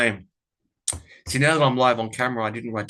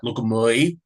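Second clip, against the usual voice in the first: Kath's catchphrase; 4 dB louder than usual. Retold or imitated. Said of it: "in the way that she says it to her daughter".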